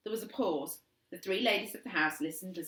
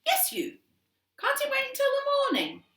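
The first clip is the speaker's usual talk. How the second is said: bickering parents; 9 dB louder than usual. A narrator's reading. Mother and dad bicker.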